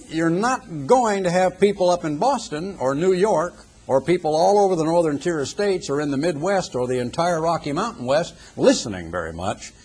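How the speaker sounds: usual speaking voice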